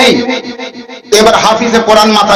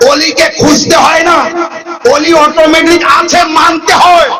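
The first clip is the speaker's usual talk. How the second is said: raised, high-pitched sermon rebuke; emphatic preaching; 4 semitones higher than usual. Retold or imitated. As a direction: drive each phrase home to the crowd. Preacher drives home his rebuke. (উঁচু স্বরে জোরালো ওয়াজ)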